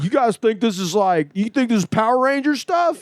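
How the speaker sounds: high, worked-up mock instructor; insane instructor. Karate instructor scolding his class, mock rant. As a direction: imitate a ranting karate teacher. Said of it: "he was insane".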